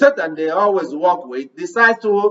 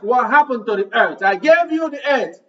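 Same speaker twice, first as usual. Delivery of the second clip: voicing the Lord. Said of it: "the Lord will ask".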